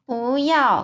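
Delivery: a sudden loud cry, pitch jumping up; shout no. A narrator's reading. Sophie about to cry out to stop the giant, loud. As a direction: blurt it out in panic. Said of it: "苏菲想大叫".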